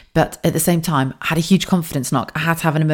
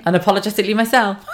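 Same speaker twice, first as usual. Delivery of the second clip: mock slogan shout; 5 semitones higher, faster than usual. Mocking the self-help slogan.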